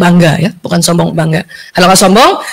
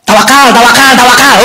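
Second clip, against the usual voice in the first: preachy advice. Retold or imitated. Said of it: "Gitu kalau kasih nasihat".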